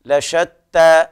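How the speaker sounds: لشتى slowly, the ش spread with a long hiss of air; التفشي في الشين; tajweed demo. Shown as a demonstration. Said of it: "بيان التفشي في الشين".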